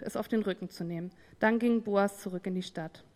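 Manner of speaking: ruhig vorgelesener Bibeltext, etwas tiefer; Bibellesung. Acted. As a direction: lies die Schrift gesammelt und gleichmäßig vor. Liest Bibeltext vor. (ruhige, etwas tiefere Vorlesestimme)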